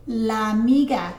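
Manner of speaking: "La amiga" run together as one word; words smushed together. Shown as a demonstration. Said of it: "we smush it together".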